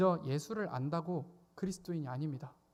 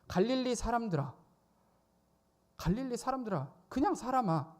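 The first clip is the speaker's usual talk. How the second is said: pointed address; 6 semitones higher than usual. Retold or imitated. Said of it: "이렇게 부르고 있습니다".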